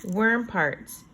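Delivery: put-on slow, clear read-aloud for kids; reading to children. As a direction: read each word out slowly for young listeners. Teacher reads book text slowly.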